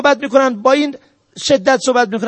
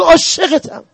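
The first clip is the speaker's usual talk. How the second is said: raised, fond declaration to mother; loving declaration; 5 semitones higher, slower than usual. Shown as a demonstration. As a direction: say it as a son openly telling his love. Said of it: "بگو". (ابراز عشق با صدای بالاتر و گرم)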